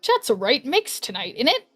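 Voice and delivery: best-effort amateur British accent; unconvincing British accent, lilting. Shown as a demonstration. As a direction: put on your best attempt at British. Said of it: "my best British accent".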